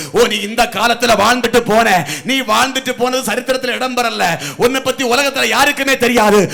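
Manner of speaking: climbing to a high, loud shout; shouted preaching. Acted. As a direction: preach it up to a full-force cry. (உச்சக் குரலில் முழங்கும் பிரசங்கம்)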